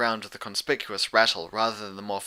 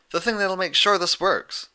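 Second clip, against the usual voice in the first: Twilight; 9 semitones higher, 4 dB louder than usual. Acted. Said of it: "sounding none too pleased".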